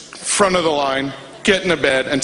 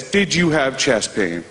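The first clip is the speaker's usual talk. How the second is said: imitating the nurse's question; 3 semitones lower, slower than usual. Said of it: "If she says".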